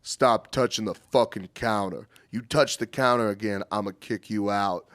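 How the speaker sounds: a hint of a big, deep grill cook threatening; low, flat threat from the silent giant. The big grill cook warns the counter-toucher, lightly deep threat. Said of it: "his deep fucking voice just goes".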